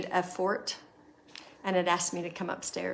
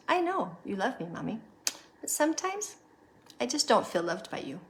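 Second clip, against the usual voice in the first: a hint of a small child, pitch jumping much higher on sometimes; daughter's voice; 4 semitones higher than usual. Mother quoting her six-year-old daughter, lightly childlike and higher. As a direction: lightly voice the six-year-old's honest hurt. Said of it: "And she goes".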